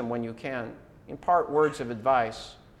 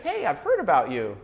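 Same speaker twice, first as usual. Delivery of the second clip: friendly, pleased greeting; very positive. Shown as a demonstration. Someone greeting a person of good repute, very positive. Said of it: "say it in a very positive way".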